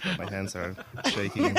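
nervous trembling voice; shaky voice. Real, not acted. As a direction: voice shaking with nerves. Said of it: "my voice is shaking".

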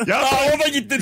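high voice, laughing through it; squeaky complaint, laughing. Retold or imitated. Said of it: "Kadın azıcık sesini yükseltiyor".

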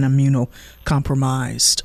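drawn out, careful pronunciation; slow, stretched-out word. Real, not acted. Host getting through a hard word, slow and stretched. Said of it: "say it slowly and stretch".

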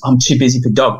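put-on a boy echoing his grown self's words; incredulous boy. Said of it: "And then he goes".

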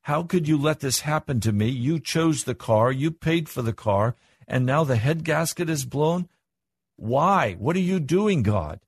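acted moaning complaint, rising to a high "why"; complaining to God. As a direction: plead indignantly, as if wronged by God. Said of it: "I can groan and moan and complain and say".

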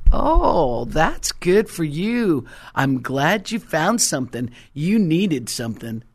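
mock patronizing. Brushes off friend's testimony.

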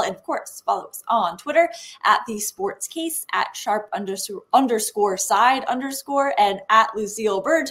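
thick tongue lisp; words slurred by a numb tongue. Real, not acted. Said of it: "my tongue is numb".

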